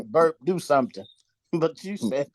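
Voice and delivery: talking through a mouthful; words round a bite of food; mouth full. Real, not acted. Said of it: "excuse me for talking with my mouth full".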